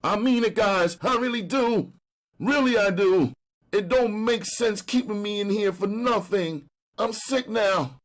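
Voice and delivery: high, pleading street hustler. Acted. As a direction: beg like a jailed junkie. Brown begs to be released.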